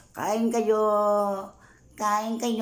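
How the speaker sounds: loud and high, inviting strangers; calling out. Real, not acted. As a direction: call across the market to them. Calling out to diners.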